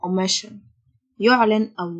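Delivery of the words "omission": omission with the ssio said as sh, o-MI-shun; teacher sounds out omission with a sh sound; clear pronunciation demo. Shown as a demonstration. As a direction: model omission slowly for students, ssio as sh. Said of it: "ال S S I O تنطق شه".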